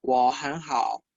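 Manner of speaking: slow, stretched Mandarin syllables; careful, drawn-out teaching pronunciation; slow language demo. Shown as a demonstration. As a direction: model the tones unhurriedly for learners. Teacher models a Mandarin answer.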